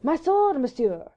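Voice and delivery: put-on high, loud French-accented retort; losing his temper. A narrator's reading. Bewildered Vicomte answering Sir Percy, rising temper. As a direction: fling it back, indignant, in a French accent. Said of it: "beginning to lose his temper".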